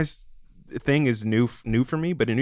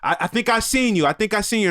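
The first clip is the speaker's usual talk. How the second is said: retold yell; 8 semitones higher than usual. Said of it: "yelled at me".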